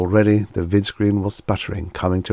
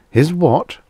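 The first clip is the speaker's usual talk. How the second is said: high, loud startled cry; shocked; 10 semitones higher, 5 dB louder than usual. A narrator's reading. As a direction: jump at the news. Bassett leaps in shock.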